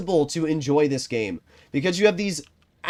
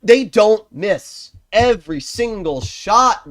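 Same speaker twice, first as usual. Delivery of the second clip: loud, high, hammered-out complaint; real anger; 5 semitones higher, 6 dB louder, slower than usual. Real, not acted. Gamer complaining that enemies hit every time, loud and mad. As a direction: raise the voice in angry disbelief. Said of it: "I'm getting so mad".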